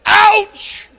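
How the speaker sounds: short high clipped ouch; boy's tough ouch. Retold or imitated. Boy hit by a ball, shrugging it off with a high ouch. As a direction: play it off like it barely hurts. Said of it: "Not, "Oh," but".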